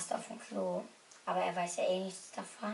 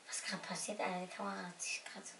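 hushed unvoiced whisper; 3 semitones lower, 7 dB quieter than usual. Real, not acted. Friends planning a prank, whispering. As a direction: whisper so the victim won't hear.

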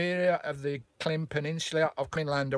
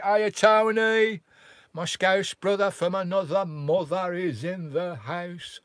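higher, much louder, drawn-out hail; excited greeting; 4 semitones higher, 6 dB louder, slower than usual. Real, not acted. Welcoming his Scouse friend into the live chat, excited.

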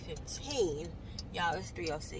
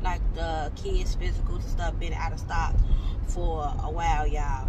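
on a bumpy road; 6 dB louder than usual. Real, not acted. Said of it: "Excuse the bumps in the road".

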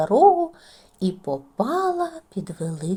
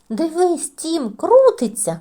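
boasting; 7 semitones higher, 7 dB louder, slower than usual. A narrator's reading. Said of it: "похвалився Джоді".

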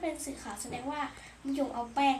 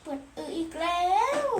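urgent; 4 semitones higher, 6 dB louder than usual. Pretend. Repeats it more urgently.

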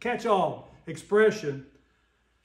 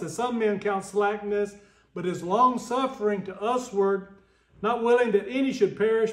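scripture reading. Acted. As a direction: proclaim the verses to the congregation. Reads Second Peter aloud.

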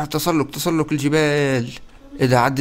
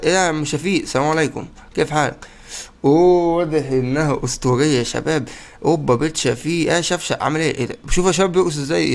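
usual speaking voice

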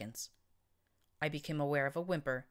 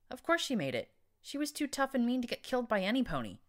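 much higher, excited pride; proud relief; 9 semitones higher, 3 dB louder than usual. Acted. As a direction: gush with relief about your tough friend. Narrator proudly relieved about Daisy.

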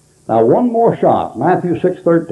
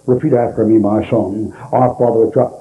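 lightly voiced priest, pitched low; a hint of a solemn priest, lower voice; 5 semitones lower than usual. Priest to a dying man, lightly imitated low voice. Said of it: "and the priest says".

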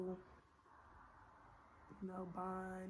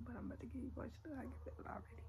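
getting emotional; 3 semitones higher, 5 dB quieter, much faster than usual. Real, not acted. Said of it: "I'm trying not to get emotional".

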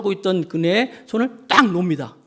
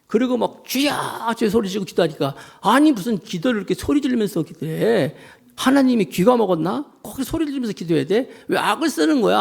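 higher-pitched indignant complaint, acted out; disgruntled grumbling; 4 semitones higher than usual. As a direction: imitate an annoyed churchgoer griping in disbelief. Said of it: "마음이 너무 불편한 거예요". (못마땅해서 투덜대는 흉내)

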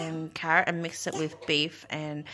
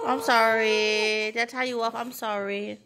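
cooing apology; 3 semitones higher than usual. Real, not acted. Apologising to baby after telling off.

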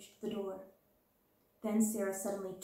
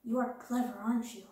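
touch of awe. Acted. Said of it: "with a touch of awe".

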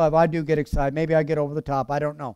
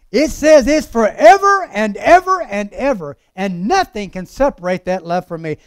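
emphatic preacher with big rising swells; preaching; 3 semitones higher, 6 dB louder than usual. Acted. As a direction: preach it in strong, spaced phrases. Preaches at full force.

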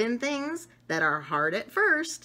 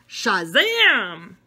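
magic spell; 9 dB louder than usual. Pretend. Child tries a magic spell.

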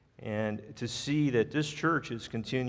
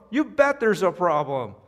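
high, loud, furious complaint; enraged diner berating the manager; angry scream; 5 semitones higher, 5 dB louder than usual. Retold or imitated. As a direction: yell about the ruined suit. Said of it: "The guy screams".

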